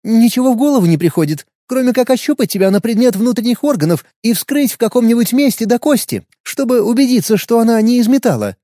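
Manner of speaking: put-on high, casual girl's voice; offhand young woman musing. Anya proposes cutting him open.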